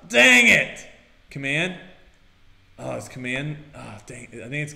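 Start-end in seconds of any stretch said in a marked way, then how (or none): 0.1-0.8 frustrated. Real, not acted. Game mishap.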